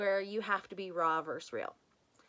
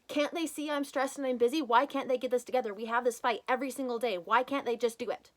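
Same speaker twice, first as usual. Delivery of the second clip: frustrated parent; 2 semitones higher, faster than usual. Retold or imitated. Voicing stressed parent frustration.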